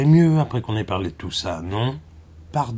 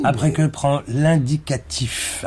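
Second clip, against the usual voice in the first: pedantic correction; 3 semitones higher than usual. Acted. Leçon de grammaire, correction insistante.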